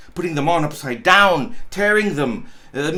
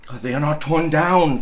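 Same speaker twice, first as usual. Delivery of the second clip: crying out; faster than usual. Acted. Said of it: "cried Scrooge".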